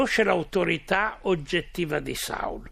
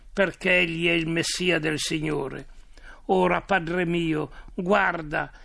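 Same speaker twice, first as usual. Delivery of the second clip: solemn, measured reading of a Bible story; scripture reading. A narrator's reading. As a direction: read it out as scripture, with clear phrases and pauses. Reads the Bible story aloud. (lettura solenne di un racconto biblico)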